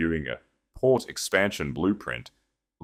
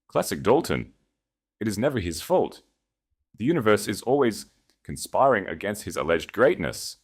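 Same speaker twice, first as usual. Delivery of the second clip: disgusted; 4 semitones higher than usual. Acted. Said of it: "shaking his head in disgust".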